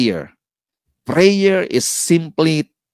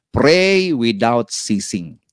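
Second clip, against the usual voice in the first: slow solemn quote; 2 semitones lower, much slower than usual. Acted. Quoting Paul.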